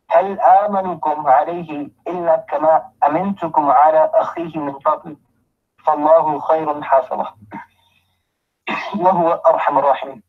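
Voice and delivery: rapid, even recitation of the verse; fast Arabic recital; quick Quran recitation. Acted. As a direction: run through the Arabic verse briskly.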